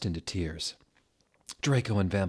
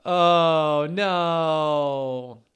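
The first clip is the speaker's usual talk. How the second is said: laughing; 7 semitones higher, 6 dB louder than usual. Real, not acted. Reader laughing in disbelief.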